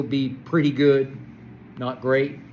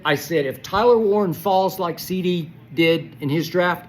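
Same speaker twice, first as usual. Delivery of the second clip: frustrated yelling; 4 semitones higher, 3 dB louder than usual. Real, not acted. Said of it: "the savage beast that I have become".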